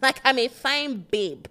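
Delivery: put-on high, bright valley girl voice; white girl voice. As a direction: pretend to be a stuck-up pretty girl. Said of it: "do the white girl voice".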